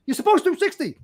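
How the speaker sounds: high-pitched reprimand; angry officer. Retold or imitated. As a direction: imitate an officer laying down the rule. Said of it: "he was really angry".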